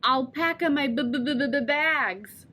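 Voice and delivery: stuck on b before bags; the punchline caught on the b; stuttered punchline. Shown as a demonstration. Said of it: "I ruin my own punchlines".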